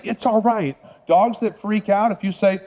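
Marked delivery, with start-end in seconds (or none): 0.0-0.8 mock nervous soothing. Shown as a demonstration. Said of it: "Not say".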